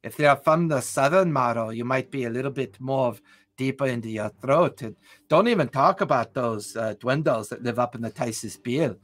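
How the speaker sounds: put-on German-accented explaining; hammy German, measured delivery; bad German accent. Shown as a demonstration. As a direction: lecture in a cod-German Zimian accent. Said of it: "which is just really bad German accent".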